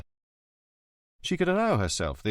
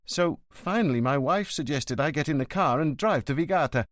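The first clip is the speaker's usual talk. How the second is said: higher, anxious son's voice; a worried son pleading with the inspector; lightly voiced nervous young man; 6 semitones higher than usual.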